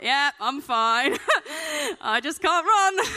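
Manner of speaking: hammed-up wail of an exhausted runner; acted breathless wailing. Acts breathless runner caught struggling.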